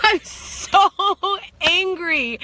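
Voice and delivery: slow, laughing admission of rage; laughing, so angry. Real, not acted. Recalling her rage to viewers, slow laughing admission. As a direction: laugh through it, stretched out. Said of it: "laughing slowly at own rage".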